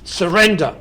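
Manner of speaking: badly faked German accent, barked out; mock German accent. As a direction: shout it like a hammed-up German officer. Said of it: "I can't do a Nazi accent".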